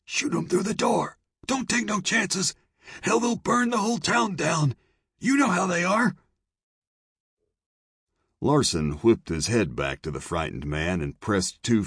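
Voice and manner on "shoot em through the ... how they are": rasping shout. A narrator's reading. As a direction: rasp it out in a panic. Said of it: "Carlyle rasped".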